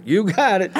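lightly mocking yes-sir; sarcastic agreement. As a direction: answer the boss with cheeky compliance. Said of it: "I was like".

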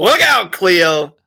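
high, loud playful cry; mock exclamation. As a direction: call it out like a TV psychic.

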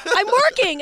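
husband on the phone brushing off his wife; mock irritated husband. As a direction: brush her off. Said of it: "He's like".

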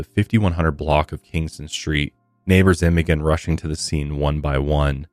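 measured podcast story read; true-crime narration. Real, not acted. Host recounting a shooting to listeners, measured narration. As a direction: read the case account clearly and evenly.

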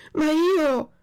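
high, loud, cut-off cry; frightened puppet protesting to the police; panicked protest. A narrator's reading. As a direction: try to object and get cut short. Puppet protests his arrest.

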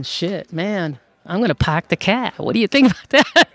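joking Southern twang, rising high on the question; mock Southern accent. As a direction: tease them back in a put-on Southern accent. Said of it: "with a heavy Southern accent".

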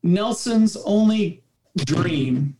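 slow, lightly attempted Spanish accent; imitated Spanish accent. Dad telling coach his son's dream, mild imitated Spanish accent. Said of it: "kill the accent".

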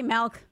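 MILK said as "melk"; milk with an open E vowel; malk pronunciation. Shown as a demonstration. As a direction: say MILK as if spelled M-A-L-K. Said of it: "Like M A L K".

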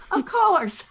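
high voice breaking into laughter; laughing. Retold or imitated. Dolly amused by the puppeteer's answer, high laughing imitation. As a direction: imitate her laughing as she speaks. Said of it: "she just started laughing".

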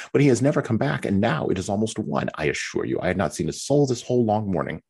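fretful self-pitying young wife, lightly voiced; Mary's complaining voice. Mary complains to Anne about being left alone, lightly whiny.

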